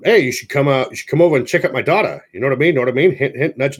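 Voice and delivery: lightly voiced vintage radio host; a hint of a grand announcer pitch; old-timey radio announcer. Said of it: "sounding like an old-timey radio announcer".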